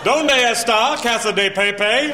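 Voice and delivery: slow, syllable by syllable Spanish; mock American Spanish; sounded-out Spanish. Shown as a demonstration. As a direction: sound out every vowel. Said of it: "You go".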